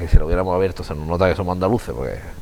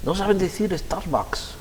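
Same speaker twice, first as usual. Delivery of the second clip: mocking Madrid snob; 9 semitones higher, 8 dB quieter, slower than usual. Mocking Madrid critics of Andalusians.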